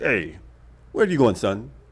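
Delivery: real deep professor voice, calling out. Retelling a professor stopping him leaving class, imitating Dr. Quaynor's deep voice. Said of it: "he had a real deep voice".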